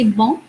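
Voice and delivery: "bon" with a fully nasal vowel, no n sound. Shown as a demonstration. French teacher showing students a nasal vowel in "bon". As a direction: let "bon" ring through the nose, French style. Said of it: "which is a nasal sound".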